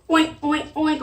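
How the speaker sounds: pig oinks. Shown as a demonstration. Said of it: "let me hear your pig sound".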